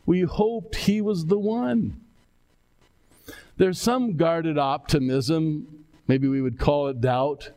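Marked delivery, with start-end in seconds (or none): 0.0-2.0 lingering disappointment. Shown as a demonstration. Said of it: "phrase just eating away at them".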